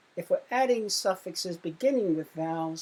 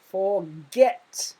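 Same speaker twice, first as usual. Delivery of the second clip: "forget" with the weight on "get", rising at the end; stress on GET; 6 dB louder than usual. Shown as a demonstration. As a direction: lean into "get" in "forget" for the class. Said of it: "word or syllable is stressed".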